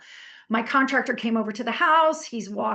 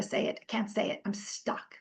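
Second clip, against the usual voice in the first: whisper; 7 dB quieter than usual. Shown as a demonstration. Acting out the freeze response.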